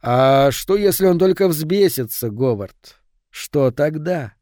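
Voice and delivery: a touch of pondering, slowed; pensive inner voice. Acted. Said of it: "Внутренний голос задумчиво сказал". (задумчивый внутренний голос)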